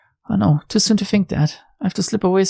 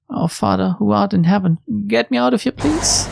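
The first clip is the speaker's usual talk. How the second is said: mild prayer rising higher to please; desperate prayer; 5 semitones higher than usual. Acted. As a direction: pray quickly, pleading at the end. Heroine prays.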